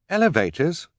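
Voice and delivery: high puzzled question; surprised girl. Acted. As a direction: echo it in surprise. Violet surprised.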